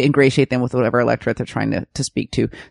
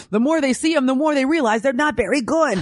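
laughing; 8 semitones higher than usual. Real, not acted. Laughing mock of party.

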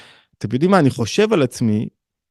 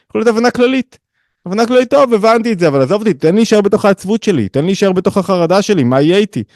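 acted protest; 7 semitones higher than usual. Listener begs to stay in sadness and anxiety, pleading. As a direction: plead to be left alone in your misery. Voicing a reluctant, anxious listener.

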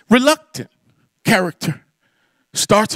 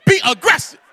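laughing cheer; 4 semitones higher than usual. Retold or imitated. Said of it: "I can't even say it that fast".

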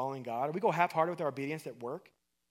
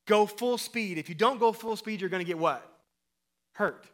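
louder coach bark on the field; coach yelling; 3 semitones higher, 5 dB louder than usual. Retold or imitated. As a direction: yell it like a junior high football coach. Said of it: "what would the coach say".

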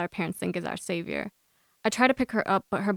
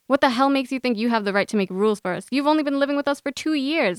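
raised voice, rising as it goes; yelling; 5 semitones higher than usual. Acted. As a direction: confront them angrily. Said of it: "I yell".

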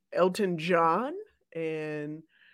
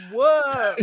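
dog bark; 4 semitones higher, 7 dB louder than usual. Retold or imitated. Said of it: "Put some more bass in your voice".

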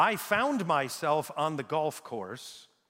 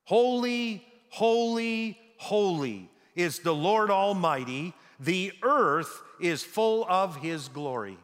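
calling out praise; 2 semitones higher, 4 dB louder, slower than usual. Acted. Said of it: "they were calling to one another".

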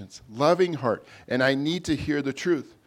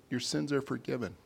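soft, tender softer reading; quiet merciful reassurance; gentle forgiveness; 7 dB quieter than usual. Retold or imitated. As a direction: say it gently, like granting rest. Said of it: "is this gentle".

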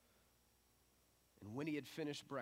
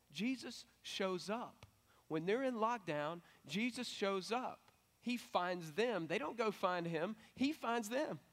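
rising, louder and higher, hammering each phrase; emphatic preaching; 5 semitones higher, 4 dB louder, slower than usual. Real, not acted. Preacher to congregation, slow emphatic building proclamation. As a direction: drive it home with slow, swelling emphasis.

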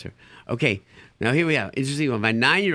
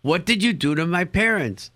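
put-on indignant kid; 6 semitones higher, 3 dB louder than usual. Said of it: "I've had kids say to me".

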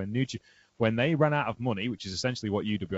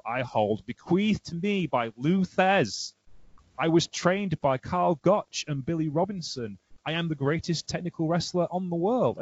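boastful carping. Retold or imitated. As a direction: proclaim each title grandly, pitch climbing toward the end. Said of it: "Takada saying ... listening to that carping on".

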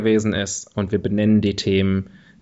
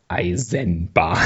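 sultry whisper; 4 semitones lower, 4 dB quieter, much slower than usual. Shown as a demonstration. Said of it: "erotische, äh, Ode an die Bahn".

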